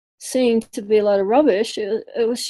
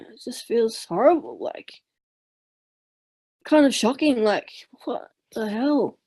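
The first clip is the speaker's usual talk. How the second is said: fighting back tears, voice dropping; choked up. Real, not acted. Seeker telling the teacher about meaninglessness, choked up. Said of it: "I'm getting choked up".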